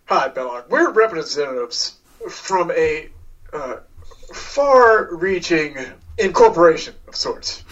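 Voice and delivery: oily corporate charm; smooth salesman voice. Acted. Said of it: "He says".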